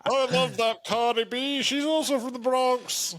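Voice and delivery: exaggerated Bronx accent, climbing high. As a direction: do a comic, hammed-up Bronx voice. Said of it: "let me do my Bronx accent for you".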